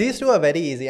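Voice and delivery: attempted French accent. Shown as a demonstration. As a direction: try copying a French accent. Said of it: "I'm trying to copy French accent".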